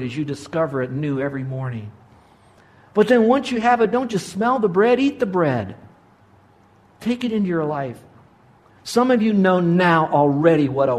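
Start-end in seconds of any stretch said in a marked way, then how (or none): 2.9-8.0 high, punchy pulpit exhortation; emphatic preaching. Real, not acted. Preacher exhorts listeners to take in the word, emphatic preaching. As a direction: drive it home to the congregation, pitched up.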